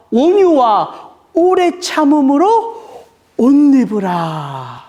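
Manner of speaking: slow, weighty preaching of the verse; solemn scripture recitation. Acted. Pastor speaking God's word to the congregation, slow and solemn. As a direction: lay each phrase down slowly like a blessing.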